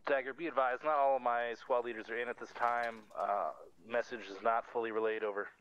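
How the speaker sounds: loud radio call over static; crackly military radio. Real, not acted. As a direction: bark it into the handset.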